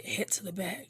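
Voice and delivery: whisper. Acted. Old man secretly telling Naruto to go back, hushed. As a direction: lean in and say it under your breath. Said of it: "and then he would whisper".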